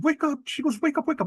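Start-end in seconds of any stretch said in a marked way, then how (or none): 0.0-0.5 high, urgent wake-up call; retold panicky plea to wake; urgent rousing. Sister finding her brother on the ground, urgent rousing. 0.8-1.3 high, urgent wake-up call; retold panicky plea to wake; urgent rousing. Sister finding her brother on the ground, urgent rousing.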